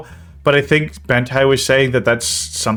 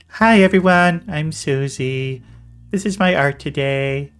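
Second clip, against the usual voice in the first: mock sad Susie; 4 semitones higher than usual. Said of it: "you're making Susie sound so fucking sad".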